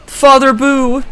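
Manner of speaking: high, loud call. Pretend. Streamer calling to King Boo, high loud call. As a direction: call for him across the room.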